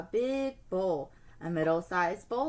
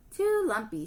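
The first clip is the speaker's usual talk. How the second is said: grumbling; 4 dB louder than usual. Acted. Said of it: "she grumbled".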